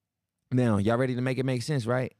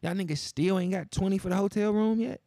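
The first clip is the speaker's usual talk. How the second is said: much higher, mocking disbelief; incredulous rant; 7 semitones higher, slower than usual. Real, not acted. Host mocking scammers still short after years, high incredulous. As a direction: scoff at them, pitch way up. Ranting at repeat scam.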